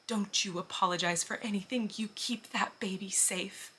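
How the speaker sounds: choking up while quoting; close to tears. Retold or imitated. Retelling a kind stranger's words to her, holding back tears. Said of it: "I will cry every time I tell".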